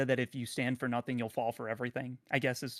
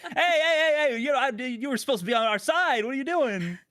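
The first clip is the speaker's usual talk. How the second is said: laughing mock betrayal; 11 semitones higher, 7 dB louder than usual.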